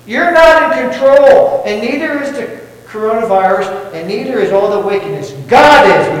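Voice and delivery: a hint of triumphant certainty; preacher imagining Jesus' thoughts before Pilate; Jesus' imagined thought. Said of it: "he was probably thinking".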